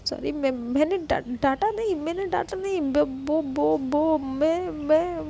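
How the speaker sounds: stammering, rushed sorry; flustered apology. Retold or imitated. Anu nervously apologising to the sulking girl, stammering. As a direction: backpedal nervously, tripping on words. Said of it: "तो कहती".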